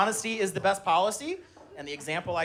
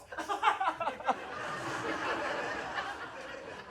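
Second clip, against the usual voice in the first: put-on laugh; 12 semitones higher, 9 dB quieter than usual. Mock laugh after sappy answer.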